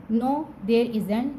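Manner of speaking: "No, there isn't" said very slowly; slow answer. Shown as a demonstration. Teacher models the short answer very slowly. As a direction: spell out each word of the answer. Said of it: "बोला जाएगा isn't".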